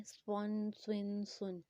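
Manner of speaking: سون with a full, whistling S; heavy whistled S. Shown as a demonstration. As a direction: whistle the rounded S in each سون. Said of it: "وسل sound کے ساتھ پڑھیں گے".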